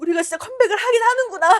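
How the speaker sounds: weepy, very high, tearful crying voice with sniffling. Retelling how a bandmate spoke while crying at the reunion: imitating someone crying. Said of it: "막 이러면서 울고 있어요".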